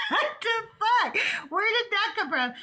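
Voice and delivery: high-pitched, incredulous retelling; stretched-out disbelief on the first words; retold bafflement. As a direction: act out being taken aback, pitched well up. Acted baffled reaction to being mocked.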